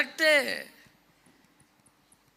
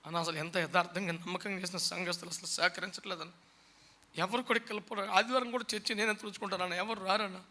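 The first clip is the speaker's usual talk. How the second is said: soft, lower, self-pitying complaint; complaining pastor; 3 semitones lower, 6 dB quieter than usual. Retold or imitated. A pastor complaining to the preacher that no one helps him. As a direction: whine that nobody helps. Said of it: "ఒక pastor గారే మొన్న నాకు చెప్పాడు".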